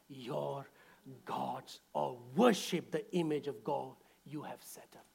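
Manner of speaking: low, soft, calm refusal; quiet, steady defiance. Retold or imitated. Three men quietly refusing the king. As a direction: tell the king softly and firmly. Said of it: "I'm paraphrasing".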